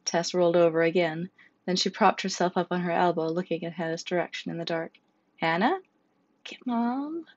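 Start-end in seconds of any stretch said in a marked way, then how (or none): 5.4-7.3 high, pleading plea for help; begging. Acted. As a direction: beg weakly through the pain. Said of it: "Hannah begged".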